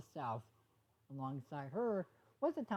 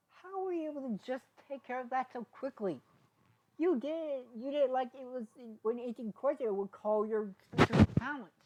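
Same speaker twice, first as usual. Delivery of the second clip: higher, louder astonished voice; amazed question; 8 semitones higher, 7 dB louder than usual. Acted. Sunny amazed at how fast Izzy fixed it. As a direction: marvel at the feat.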